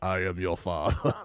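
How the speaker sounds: deep, low mock movie-villain voice; James Earl Jones. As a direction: drop low and soft for a playful impression. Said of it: "make myself sound like James Earl Jones".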